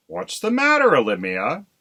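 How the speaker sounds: high, loud concerned question; worried husband crow. Acted. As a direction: greet his pale wife, alarmed. Husband voiced in story.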